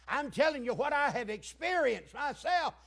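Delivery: building from firm to loud, high preaching; impassioned preaching. Real, not acted. Preacher testifying from long experience, impassioned preaching. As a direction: raise the voice into fervent testimony.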